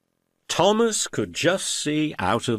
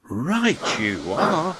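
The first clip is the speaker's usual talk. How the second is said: Thomas voice; 9 semitones higher, much slower than usual. Acted. Thomas agreeing.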